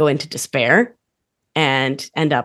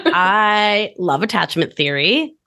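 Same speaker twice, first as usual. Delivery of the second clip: slow, gushing nerd delight; nerdy enthusiasm; 2 semitones higher, slower than usual. Shown as a demonstration. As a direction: savor every word like a fan. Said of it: "Everyone heard us say the word theory".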